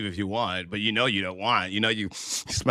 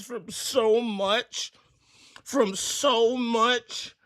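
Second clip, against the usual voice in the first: hammed-up high voice; 13 semitones higher, slower than usual. Mock exaggerated high voice.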